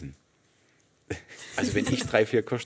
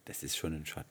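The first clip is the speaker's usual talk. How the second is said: hushed whisper; 3 semitones lower, 8 dB quieter than usual. Real, not acted. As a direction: say it under your breath. Hushed aside during drinking.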